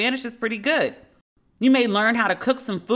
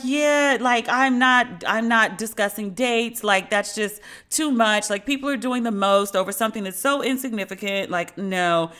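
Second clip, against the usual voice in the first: mock dismissive Hilaria. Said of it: "She was like".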